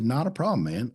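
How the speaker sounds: high, bright easygoing no problem; breezy, unbothered salesman reply; cheery brush-off. Retold or imitated. Salesman brushing off second rejection.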